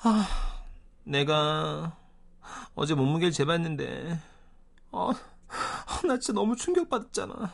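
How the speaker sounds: words pushed out on deep, heavy sighs. Retelling a coworker's complaint about her weight: imitating someone sighing while talking. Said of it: "한숨을 내쉬며 하는 말".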